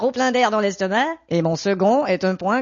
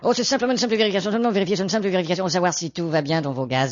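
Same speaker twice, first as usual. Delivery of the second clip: fake company voice; faster than usual. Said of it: "c'était le mec de Gaz de France".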